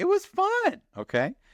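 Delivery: loud, very high-pitched, drawn-out insistent voice. Talking about how fun it was to keep up with every movie: high-pitched voice. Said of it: "I don't know why I went so high on that one".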